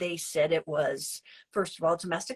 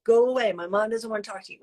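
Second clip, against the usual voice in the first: loud, firm go away from a protective son; son telling him off; 2 semitones higher, 5 dB louder, faster than usual. Retold or imitated. Son telling mom's ex to leave, firm and loud. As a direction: shoo him off the porch for your mom.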